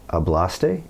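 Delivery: Hablaste as a question, stress on BLAS; rising Hablaste, accent on the second syllable; stress on middle syllable. Retold or imitated. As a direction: ask Hablaste tentatively, hitting the middle vowel. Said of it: "they just naturally hit the right vowel".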